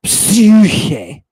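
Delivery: "psyche" as "psyuu-khay", high and drawn out; long upsilon. Shown as a demonstration. Teacher showing students the long vowel, drawn-out "psyche". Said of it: "The vowels have different lengths".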